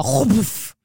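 puffed sound of blinds falling; imitated whoosh. Storyteller mimics the blinds coming down, puffed whoosh. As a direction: imitate a sudden collapse with breath. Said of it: "de bara".

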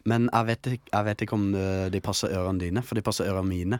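Kristiansand dialect. Pretend. Attendant doubts the cotton will fit passenger, Kristiansand dialect. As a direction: switch into southern Kristiansand speech.

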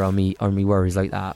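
Cornish accent with a light rolled-in R; slight Cornish R. Shown as a demonstration. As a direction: mostly own voice, touch of Cornish R. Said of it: "just a slight R".

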